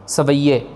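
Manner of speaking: सवैये said with each syllable clear; careful pronunciation. Shown as a demonstration. Teacher models सवैये as it is written. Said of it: "इसको बोलने का तरीका".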